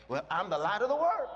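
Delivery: confident claim, building to the end; bold declaration. Acted. Believer claiming to be the light, bold and unashamed. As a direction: declare it boldly, lifting the last words. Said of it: "Be bold".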